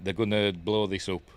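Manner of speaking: low, soft, sinking realisation; subdued concern. Real, not acted. Spectator seeing rocket go wrong, subdued concern. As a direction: say it quietly, dropped in pitch. Sees the vehicle tumbling.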